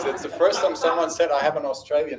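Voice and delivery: amused chuckle through the words; laughing. Real, not acted. Speaker laughs at being told he sounds Australian, amused.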